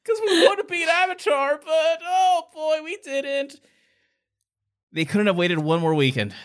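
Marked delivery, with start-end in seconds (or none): 0.1-3.6 high, laughing fake studio announcer; mock announcer voice. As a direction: ham up a cheesy studio spokesperson.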